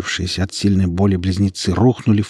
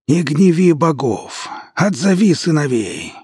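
hoarse, slow and higher; 8 semitones higher than usual. A narrator's reading. Strained Godogost warns Abbas, hoarse and slow. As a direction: grate out the warning, slowly. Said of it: "хрипло произнёс Годогост".

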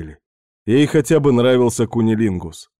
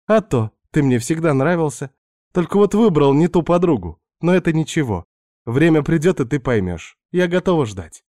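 higher, teasing seductress voice; Svetka's voice; 6 semitones higher than usual. Acted. Narrator voicing Svetka tempting the married man, higher teasing voice. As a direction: play the pushy houseguest luring him in.

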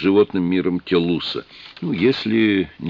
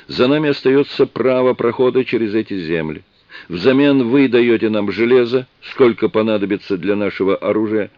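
raised, formal alien voice; solemn chieftain; 4 semitones higher than usual. Acted. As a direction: lay down the terms firmly. Alien chief's solemn treaty speech.

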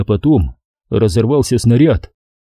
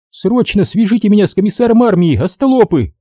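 высокий громкий властный окрик; рявкнуть приказ; рявкнула; 10 semitones higher than usual. A narrator's reading. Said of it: "рявкнула вдруг Надя". (Надя приказывает солдатам, рявкая)

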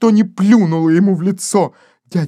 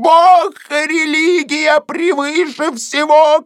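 higher, slow fervent cry; pious shriek; 9 semitones higher than usual. Acted. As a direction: hammer out each word in fury. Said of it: "кричала Денти". (Денти кричит гостю, высокий медленный гневный крик)

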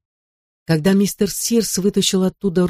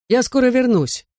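reassuring father; 8 semitones higher than usual. A narrator's reading. Father reassures his son.

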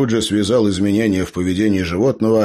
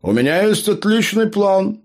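gnome voice; 13 semitones higher than usual. A narrator's reading. Gnome bounces up from the dirt, high and cheerful. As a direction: chirp it out like a dizzy gnome. Gnome announces his plan.

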